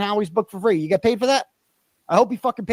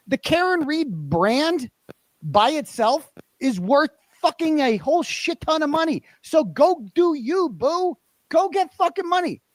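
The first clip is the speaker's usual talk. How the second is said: higher, worked-up push to go get the money; fired-up rant; 5 semitones higher than usual. Real, not acted. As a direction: hype her up, fired up.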